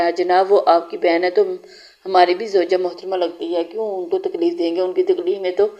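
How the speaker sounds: lightly teasing, mock gallant; a hint of mischief in the compliment; playful teasing. Husband teasing his wife in front of her brother, playfully. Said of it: "वो शरारत से बोला था".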